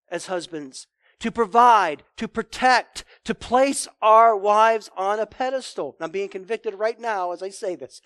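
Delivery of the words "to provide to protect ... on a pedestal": rising emphasis. Real, not acted. Pastor charging husbands with their duties, loud. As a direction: build it up like a rallying call. Preacher building a list.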